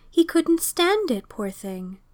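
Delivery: a touch of a tearful landlady; tearful pity. Acted. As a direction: grieve for him as you say it.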